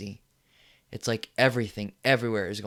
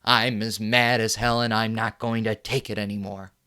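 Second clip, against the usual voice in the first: angry yell; 5 dB louder than usual. Acted. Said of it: "stick your head out and yell and say it".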